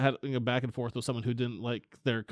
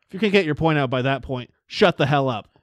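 mock exasperated snap; 4 dB louder than usual. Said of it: "I'm like".

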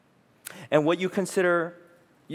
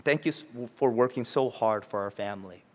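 put-on grateful kids; 4 semitones lower, 4 dB quieter than usual. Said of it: "So they come and say".

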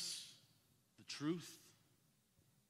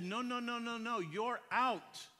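firm no; 6 semitones higher, 3 dB louder, slower than usual. Retold or imitated. Father correcting son.

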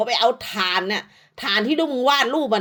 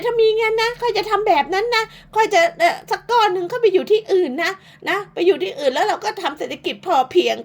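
mocking mimicry; 7 semitones higher than usual. Mimicking rival's plan to move.

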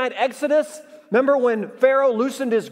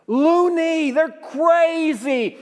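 loony high and loud, crazy drawn out slow; emphatic pun; 6 semitones higher, 3 dB louder, much slower than usual. Shown as a demonstration. Preacher repeating his pun to the crowd, high and loud. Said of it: "I like that line".

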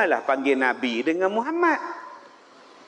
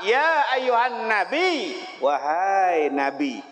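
slow, reverent "Ya ayuhan Nabi"; reverent calling; slower than usual. Shown as a demonstration. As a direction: draw the call out with awe. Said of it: "Dia panggil dengan gelaran". (seruan perlahan penuh hormat)

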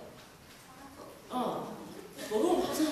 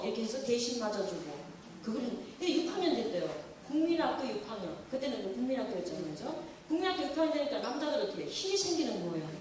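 usual speaking voice

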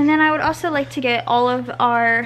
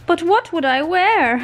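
pet voice; 6 semitones higher, 4 dB louder, slower than usual. Pretend. Voicing the dog.

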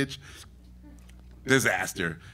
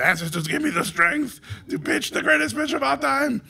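grand invocation; 13 semitones higher than usual. Retold or imitated. Summoning ancestors, grand plea.

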